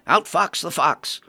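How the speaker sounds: a whole mad party cheering at once; shouted toast. Acted. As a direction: crowd toast yelled with growing force. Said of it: "stood and shouted collectively".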